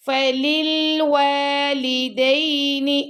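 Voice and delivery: فَلِلْوَالِدَيْنِ with lips rounded on the واو; rounded waw. Shown as a demonstration. Teacher showing rounded lips on the waw, slow recitation. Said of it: "واو کو پڑھتے وقت آپ کے lips".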